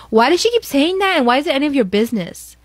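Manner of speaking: high, incredulous why. Real, not acted. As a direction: ask in sheer disbelief. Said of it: "reacting to the post".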